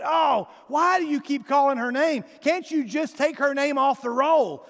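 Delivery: mock shout. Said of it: "somebody said".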